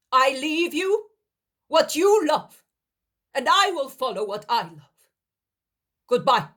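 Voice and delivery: high, loud firm reply; defiant refusal. Acted. Daniel refusing Helkai and leaving, high loud defiance. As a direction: refuse to be kept.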